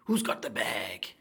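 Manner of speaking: slow breathy whisper of the line; hushed, drawn-out question. Shown as a demonstration.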